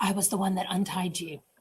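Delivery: soft, eerie, hushed, creepy half-whisper. Retelling a book character's line to another speaker, imitating a half-whisper. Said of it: "Don't whisper it like that".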